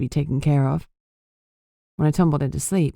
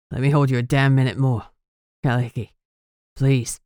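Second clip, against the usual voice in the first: rough pleading; 4 semitones lower than usual. Acted. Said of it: "voice rough".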